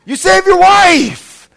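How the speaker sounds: loud, high, slowed shout on YOUR; slow shouted repeat. Acted. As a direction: hammer home each word.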